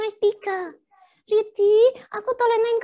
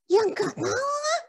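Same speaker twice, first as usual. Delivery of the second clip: whiny near-crying; slower than usual. Acted. Puppet scolded about befriending devils.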